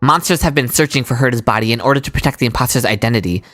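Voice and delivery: low, even and composed; calm male character voice. Acted. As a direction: deliver it cool and unbothered.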